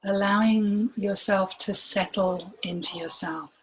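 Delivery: unhurried meditation guide, long pauses between phrases; guided meditation. Real, not acted. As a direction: gently guide them inward, leaving room to breathe.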